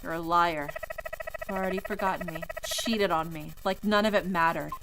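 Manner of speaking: hurt dead husband throws blame; bitter ghost. Acted. Ghost accuses her.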